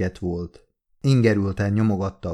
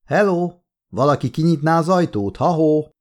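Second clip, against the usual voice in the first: higher, louder call through a locked door; calling out for help, trapped in the office; 7 semitones higher, 4 dB louder than usual. A narrator's reading. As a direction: shout for someone to open up. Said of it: "nem hallotta senki a kiabálást".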